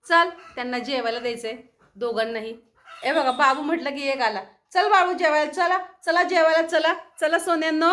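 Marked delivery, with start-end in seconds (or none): 4.7-7.9 calling pets to eat. Real, not acted.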